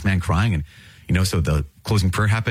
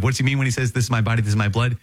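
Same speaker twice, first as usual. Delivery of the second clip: mock incredulous question; 5 semitones higher, faster than usual.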